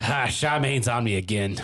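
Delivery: badly faked Boston accent; terrible Boston accent. Host riffing as a put-upon Bostonian, terrible Boston accent. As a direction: grumble in a mock Boston accent. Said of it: "that was a terrible Boston accent".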